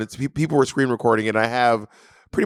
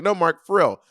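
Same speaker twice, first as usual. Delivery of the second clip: retold nagging demand, pitched up; insistent pressing; 4 semitones higher than usual. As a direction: press them for a straight answer. Pressing opponent for a straight answer.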